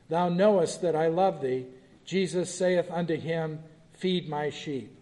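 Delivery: measured, solemn Bible reading; scripture reading. Acted. Teacher reading the Gospel passage to the class, solemn reading. Reads John 21 aloud.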